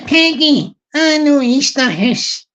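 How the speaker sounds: slow Glaswegian read-out; Scottish accent, Glasgow style. Shown as a demonstration. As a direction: put on a Glasgow accent, drawing out the words. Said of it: "I'll do it with a sort of Glaswegian".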